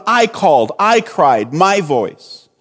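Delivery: "I" and "my" leaned on in each short phrase; stress on I and my. Shown as a demonstration. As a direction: point up "I" and "my". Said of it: "Jonah is focused on".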